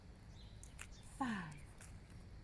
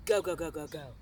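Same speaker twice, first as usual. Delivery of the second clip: urging shout; 5 semitones lower, 5 dB louder, faster than usual. Real, not acted. Coach urging class on.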